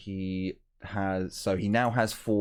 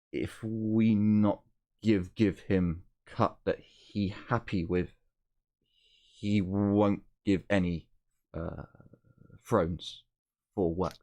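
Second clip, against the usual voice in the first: halting translator. Acted. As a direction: speak haltingly, searching for each word. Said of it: "he'll turn around to speak to you".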